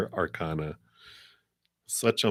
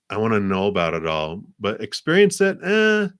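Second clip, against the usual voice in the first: dismissive student; 2 semitones higher, 5 dB louder than usual. Retold or imitated. Imitating a perpetual student type.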